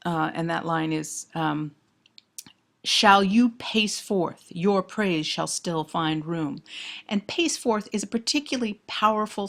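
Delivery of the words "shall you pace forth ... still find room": very slow, deliberate verse; poem recitation. Acted. Lecturer finds the hero's line, slow recitation. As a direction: declaim it, giving each word room. Reads the sonnet aloud.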